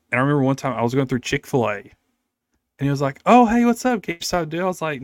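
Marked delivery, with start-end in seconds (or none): 3.3-4.6 much higher, louder happy greeting to a customer; overjoyed greeter. Retold or imitated. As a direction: hail him like your best friend, beaming. Imitating happy Chick-fil-A guy.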